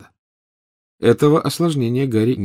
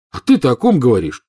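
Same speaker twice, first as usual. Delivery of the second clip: pressing question; 4 semitones higher, 5 dB louder than usual. Acted. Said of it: "допытывался Гарри".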